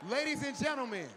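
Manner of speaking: booming announcer call. Acted. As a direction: call it out to the whole arena. Host booms to the crowd.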